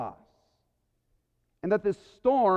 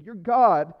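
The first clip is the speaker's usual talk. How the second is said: regaining composure, louder declaration; proclaimed louder; 7 dB louder than usual. Real, not acted. Pastor recovering to proclaim to his congregation, louder. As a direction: push through the emotion and proclaim it. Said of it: "I'm so emotional this morning".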